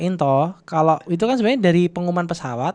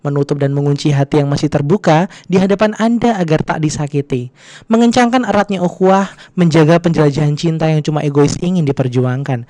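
announcement voice, louder and formal; flight attendant; 5 dB louder than usual. Pretend. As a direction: read it like a cabin announcement. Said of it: "pakai suara pramugara gitu".

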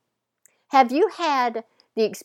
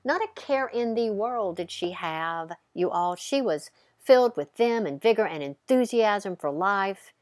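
storytelling narration. A narrator's reading. Storytelling opening.

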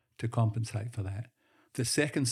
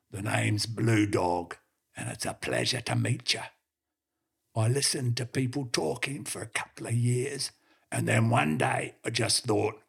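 lightly voiced gruff talking dog; a hint of a rough old blue heeler; blue heeler telling the city bloke his story, mildly gruff; strange gruff dog voice. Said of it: "In a strange, gruff voice".

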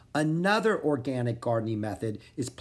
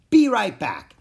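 eager call; 7 semitones higher, 9 dB louder than usual. A narrator's reading. Two kids shout together.

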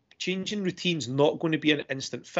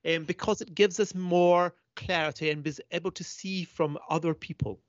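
put-on posh accent; 2 semitones higher than usual. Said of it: "Can you do it in a posh accent".

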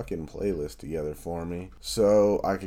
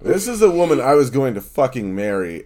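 laughing outrage; 7 semitones higher, 11 dB louder than usual. Real, not acted. Indignant rant about betrayal.

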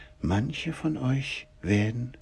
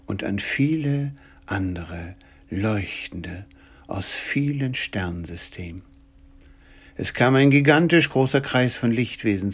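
epic fantasy narrator. A narrator's reading. Solemn narration over music.

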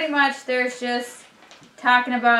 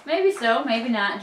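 put-on quavery old man; 6 dB louder, slower than usual. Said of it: "in his quavery voice".

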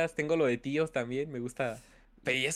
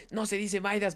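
angry correction; 5 semitones higher than usual. Retold or imitated. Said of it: "pero así bien enojados".

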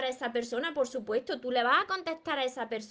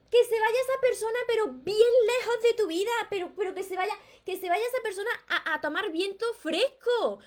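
much higher and louder, ending in a laugh; fired-up dismissal; 8 semitones higher, 3 dB louder than usual. Real, not acted. Coach telling viewer to let the unloving man go, high and loud. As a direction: send him packing with relish.

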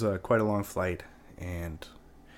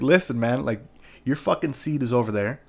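firm and louder, losing patience; getting very stern; 3 semitones higher, 5 dB louder than usual. Retold or imitated. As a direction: lay down the law to the man in your seat. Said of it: "I'm getting very stern".

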